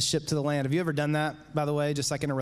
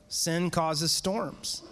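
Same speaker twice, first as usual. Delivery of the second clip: "Sin causes storms" said very slowly, word by word; very slow repeat; much slower than usual. Shown as a demonstration. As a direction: drive home "Sin causes storms" with long gaps.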